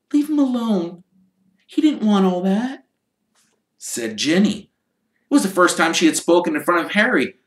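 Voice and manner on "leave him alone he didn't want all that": put-on angry girl voice. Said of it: "She was glaring at Malfoy".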